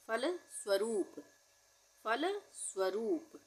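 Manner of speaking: फलस्वरूप drawn out syllable by syllable; slow dictation. Shown as a demonstration. Teacher repeating the word for writing. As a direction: say फलस्वरूप slowly and clearly. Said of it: "dictation repeat".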